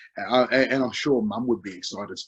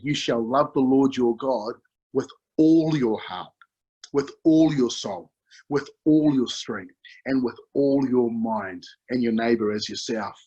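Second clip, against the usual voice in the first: scripture reading. Acted. Preacher reads Luke ten to the congregation, solemn and measured. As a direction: proclaim the verse like a preacher.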